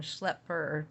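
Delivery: schlepper with a short e, like pepper; rhymes with pepper. Shown as a demonstration. Reader shows the dictionary pronunciation, schlepper rhyming with pepper. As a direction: stress the first syllable of schlepper, rhyming with pepper. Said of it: "to rhyme with pepper".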